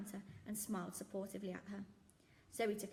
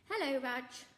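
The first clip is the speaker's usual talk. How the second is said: sheepish; 5 semitones higher, 7 dB louder, slower than usual. Acted. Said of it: "said Zoe sheepishly".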